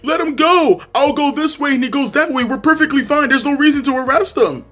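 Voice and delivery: high-pitched mock frantic woman; hammed-up, high imitation of a distraught woman; imitated spazzing out. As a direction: protest to the cops in a put-on high voice. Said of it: "Spazzing out on the cops".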